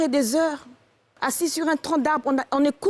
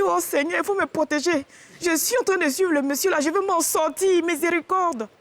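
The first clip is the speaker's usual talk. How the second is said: higher, hammed-up plea for mercy; mock pleading; 4 semitones higher than usual. Wife to God in a snake-filled forest, mock pleading.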